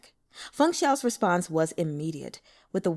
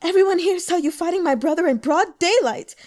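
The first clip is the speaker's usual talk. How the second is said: loud, high, furious accusation; angry cry; 9 semitones higher, 8 dB louder than usual. Acted. Sister accusing the broker in front of the crowd, furious shout. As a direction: scream it at your brother's killer. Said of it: "the girl cried in anger".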